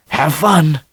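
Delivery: lightly voiced salesman, bright and high; a hint of the salesman's upbeat send-off; cheery farewell. A narrator's reading. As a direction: call it out cheerfully as he steps back. Salesman Shine calls goodbye.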